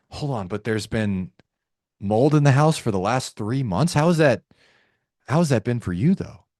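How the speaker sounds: sympathetic, probing concern. Shown as a demonstration. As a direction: gently draw out how hard it has been. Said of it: "how to use a concern tone".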